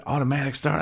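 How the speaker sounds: high-pitched mock woman's question; puzzled lady. Lady asking about his gadget, puzzled high voice. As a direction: lift the pitch right up for a puzzled query.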